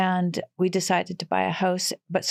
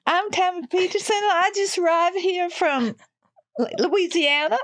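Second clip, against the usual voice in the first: put-on American accent; 11 semitones higher than usual. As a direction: sweetly play the newcomer from Louisiana. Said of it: "I'll just try to sound more American".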